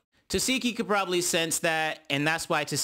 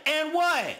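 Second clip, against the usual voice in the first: escalating challenge; 11 semitones higher than usual. Retold or imitated. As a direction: push the taunt further up. Scarface defiant.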